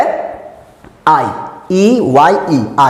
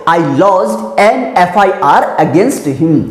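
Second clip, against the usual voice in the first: very slow, word by word dictation; much slower than usual. Shown as a demonstration. Teacher reading the example sentence slowly to students. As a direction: spell out each word slowly for the class. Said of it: "तो बोल सकता हूँ".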